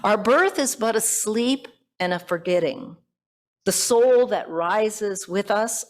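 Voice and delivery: lingering, hushed poetry reading; poem recitation. Acted. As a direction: recite the verse with gentle reverence. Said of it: "He expresses it like this".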